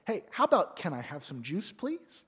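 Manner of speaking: put-on gentle child asking for juice; polite request. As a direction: ask nicely, like a well-mannered kid. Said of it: "that's a better way to ask for your drink".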